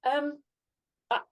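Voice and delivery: imitating an awkward, high-pitched apology; mock apologetic fan. Mistaken fan asks presenter who she is, sheepish imitation.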